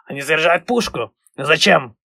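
hushed whisper, building suspense; whispered quote. Retold or imitated. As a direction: whisper it like a wary captain. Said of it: "батя постоянно цитирует капитана Смолета".

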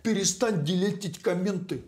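high, mocking sing-song taunt; mocking singsong. Teasing rhyme at YouTube.

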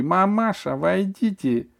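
high, loud summons; shout. A narrator's reading. Dentist shouts for the mother to come in. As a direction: call the mother in sharply. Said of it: "закричала".

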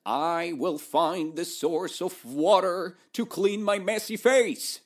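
loud, confident proclamation; proud declaration of a quest; proclaiming. Acted. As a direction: announce it boldly like a goblin hero. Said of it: "Zick proclaimed".

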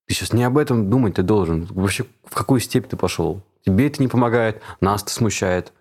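mock scolding. Speaker voices a team nagging a distracted colleague, exasperated. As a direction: pull someone back to the task, reproachfully.

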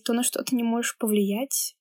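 ordinary talk

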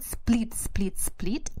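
whispered. Shown as a demonstration. Vocabulary word whispered.

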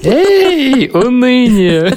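high mock hail, laughing; playful shout. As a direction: greet gloom like a friend. Mock greeting to despondency. (шутливый возглас)

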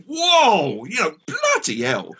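retelling shock at the razor blade; astonished exclamation. Retold or imitated. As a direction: gasp out in disbelief. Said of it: "And I went".

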